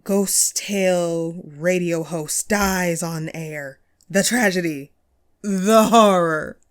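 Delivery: slow, hammed-up news-headline drama; milk each phrase like a doom-laden announcer; mock tragic headline. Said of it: "let me guess the headline".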